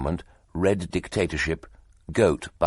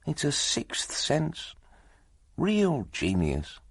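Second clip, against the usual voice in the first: meditative; 4 semitones higher than usual. Acted. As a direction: muse on the boss's genius, slowing down. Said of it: "he said meditatively".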